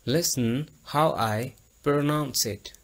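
Listen how I pronounce it again slowly, word by word; slow clear repeat. Shown as a demonstration. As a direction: repeat it clearly for the class to copy. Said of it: "आप मेरी आवाज़ पर गौर करें". (धीमा साफ़ दोहराव)

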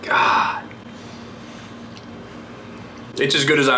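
talking between bites; muffled by food in mouth; mouth full, chewing. Real, not acted. Seen 1: Bites at -9 to -5; jaw working, lips closed through 3.7.

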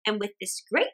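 put-on chatty old woman thinking aloud; cheerful old woman. Old woman muses over the pot in the ditch.

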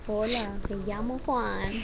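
slow Spanish with a light Mexican accent. Shown as a demonstration. Friend coaxed into introducing herself as Juan, light Mexican accent. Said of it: "do a Mexican accent".

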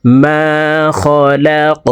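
মা held one beat, খলাক bounced at the end; one-alif stretch. Shown as a demonstration. Teacher demonstrating the vowel length. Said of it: "এক আলিফ টানিয়া পড়িতে হয়".

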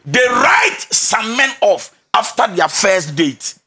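slow, weighty stress on "write"; drawn-out "write", then measured phrasing; emphatic restatement. Real, not acted. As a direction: spell out the point, hitting "write" hard and slowing down. Restates key point slowly for emphasis.

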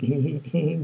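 soft imitated giggle; quiet little mock laugh, imitating people laughing; gülme taklidi. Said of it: "gülüyorlar". (hafifçe kıkırdama taklidi yaparak)

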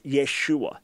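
"Yeshua" with a "yeh" first syllable; pronounced Yeshua. Shown as a demonstration. Teacher giving the correct Hebrew name, pronounced "Yeshua". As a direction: say "Yeshua" slowly, starting on yeh. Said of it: "Not Yahshua, but Yeshua".

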